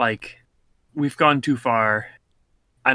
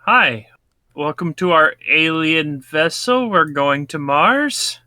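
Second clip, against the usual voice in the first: slow, raised welcoming alien; alien host voice; 4 semitones higher, 3 dB louder, slower than usual. Pretend. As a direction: greet them like a spaceship host. Voicing alien greeting.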